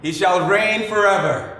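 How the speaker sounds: hammed-up royal decree; grand proclamation. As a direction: announce him like a king's herald. Grandiose announcement of brother's greatness.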